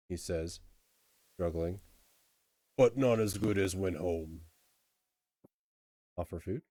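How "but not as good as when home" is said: lightly voiced, homesick troll; halting troll grumble; simple troll missing home. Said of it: "Troll, I mean".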